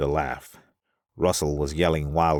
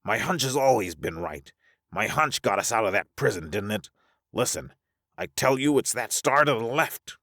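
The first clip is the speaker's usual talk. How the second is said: raised pitch, urging his case; pleading; 7 semitones higher than usual. Acted. Russell defending his hunch, mildly pleading. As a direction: press the plea, climbing higher at the end. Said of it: "Russell pleaded".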